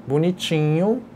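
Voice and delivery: bonitinho with its middle drawn out; diminutive expression. Shown as a demonstration. Teacher showing the weakest grade of pretty, drawn-out bonitinho. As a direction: say bonitinho small and lingering, as only mildly pretty. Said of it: "a mudança de seu significado conforme a expressão".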